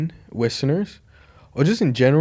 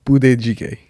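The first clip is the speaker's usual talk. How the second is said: Korean accent; 5 dB louder than usual. Shown as a demonstration. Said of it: "I'll say it in a Korean accent".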